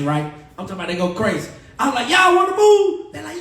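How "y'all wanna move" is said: high, slow, laughing question; laughing mock invitation; playful tease. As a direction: egg the crowd on with a grin. Teasing the crowd.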